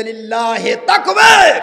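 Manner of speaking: drawn-out call, rising into a shout; re-enacted slogan. Preacher re-enacts the rows giving takbir, long shout.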